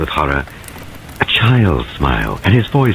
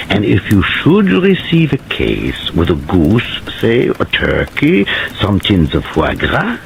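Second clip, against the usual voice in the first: theatrical foreign gentleman. Acted. Paravicini voice continues.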